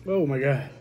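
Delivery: talking through burning lips; mouth burning from spicy food. Real, not acted. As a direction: lips on fire from hot peppers. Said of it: "My lips are on fire".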